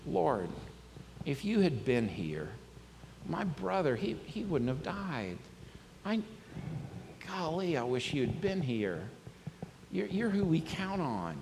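soft, halting lament; understated crying voice, slow and pained; mock tearful grief. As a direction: plead quietly through heartbreak, pausing often. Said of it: "She's crying".

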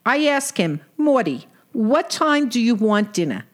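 lightly voiced exasperated wife; a hint of a fed-up Brooklyn wife; Sadie. Sadie complains about husband.

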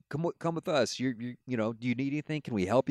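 high, eager rescuer voice; a lightly voiced Coast Guard rescuer. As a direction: play the helpful rescuer calling up.

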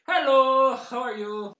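bright, loud call-centre hello; phone greeting. Acted. Call-centre worker answering the phone, loud cheery greeting.

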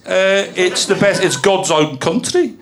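slow, attempted Wolverhampton accent. Performer describing a place for guessers, in a Wolverhampton accent. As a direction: have a careful go at a Wolverhampton accent. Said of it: "So now I'm doing Wolverhampton".

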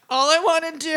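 giggly, breaking into laughter; can't keep a straight face; laughing while reading. Real, not acted. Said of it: "you sound so weird".

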